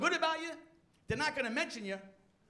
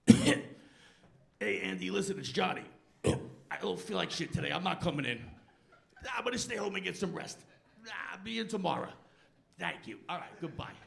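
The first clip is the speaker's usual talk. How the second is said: low, weak fake sick voice; faking being sick; 6 semitones lower than usual. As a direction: croak it out like you're ill. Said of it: "Sick voice".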